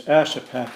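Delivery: "Ashapak" said the English way, ASS-a-pack; English pronunciation. Shown as a demonstration. Frank contrasting with the Yupik for his host, English pronunciation of "Ashapak". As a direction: stress the first syllable of "Ashapak", ending on a plain k. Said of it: "But in English".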